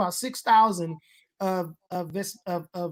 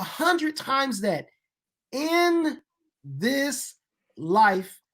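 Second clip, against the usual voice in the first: slow, high build with a pause before each word; prosperity preacher; 4 semitones higher, much slower than usual. Real, not acted. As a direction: promise it like a prosperity preacher, spacing out the words. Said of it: "you sound like a prosperity preacher".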